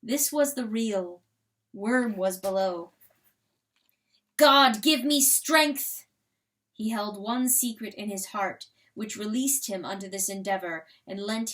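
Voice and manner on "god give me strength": fervent prayer. Acted. Rooster's prayer before battle.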